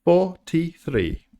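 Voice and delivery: slow drawn-out bingo call; bingo caller. Pretend. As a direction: stretch the number like a bingo hall caller. Echoing drawn number bingo-style.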